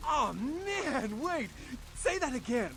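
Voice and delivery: excited. Acted. Excited ghoul character reacts.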